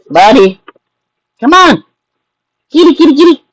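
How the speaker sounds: very high sing-song kitty call; talking to a cat. Real, not acted. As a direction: coax the cat in a high squeak. Calling cat down from fridge.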